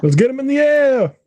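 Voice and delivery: high squeaky mock voice; high-pitched voice. Echoing movie line high.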